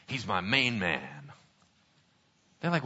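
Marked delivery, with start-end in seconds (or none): 0.1-1.3 low, slow, hushed appeal; soft, drawn-out plea for a pal; earnest vouching. Acted. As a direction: lean on it slowly and confidentially. Acted king vouches for David.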